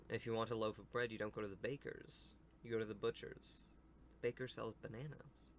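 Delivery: storybook read-aloud; story narration. Acted. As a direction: read the tale out to young listeners.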